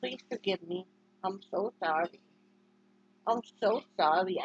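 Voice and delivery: soft apology. Real, not acted. Apologizing softly to dog.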